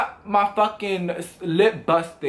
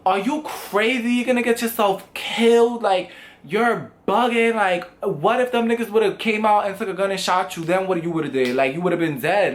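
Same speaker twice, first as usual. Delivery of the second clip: parents scolding; 3 semitones higher than usual. Retold or imitated. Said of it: "screaming at me like".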